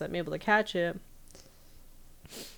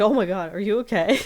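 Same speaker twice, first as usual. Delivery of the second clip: much louder concerned cry; alarmed; 3 semitones higher, 7 dB louder than usual. Retold or imitated. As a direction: call out in alarm. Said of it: "he's like".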